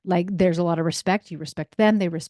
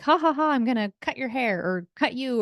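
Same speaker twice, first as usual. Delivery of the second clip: higher-pitched playful taunt with a spoken laugh; playful mock laughing; 5 semitones higher than usual. Kid chasing a sibling with scissors, playfully mock laughing. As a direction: tease like a kid, not maliciously. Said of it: "chase somebody with scissors laughing, not even maliciously".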